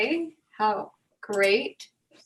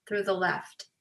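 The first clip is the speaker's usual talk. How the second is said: guided breathing. Real, not acted. Leads breathing exercise.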